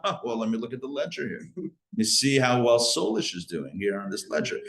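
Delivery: lightly voiced fussy accountant; petty accountant god. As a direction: play a petty god poring over a ledger.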